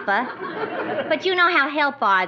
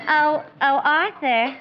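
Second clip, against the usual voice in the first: vampish. Acted. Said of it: "vamp Treacher into staying".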